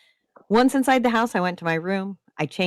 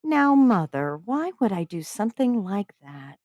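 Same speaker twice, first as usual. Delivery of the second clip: innocent voice; 4 semitones higher than usual. Acted. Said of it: "I said in my best innocent voice".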